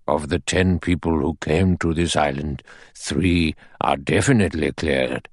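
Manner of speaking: a hint of a grave old judge addressing the men. Narrator voices the judge.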